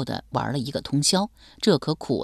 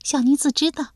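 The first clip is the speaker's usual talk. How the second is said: smiling; 11 semitones higher than usual. Acted. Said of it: "胡娥儿笑吟吟道".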